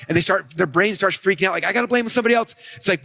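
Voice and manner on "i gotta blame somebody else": mock panic. Voicing a panicking audience brain.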